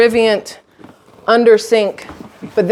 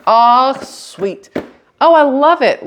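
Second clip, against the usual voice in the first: excited; 5 semitones higher, much slower than usual. Real, not acted. Delighted with organizer on fridge.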